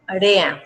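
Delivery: "rea" as one block, reh-ah glided; joined vowels. Shown as a demonstration. Teacher merging syllables for poetry counting, vowels joined. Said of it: "Las uno".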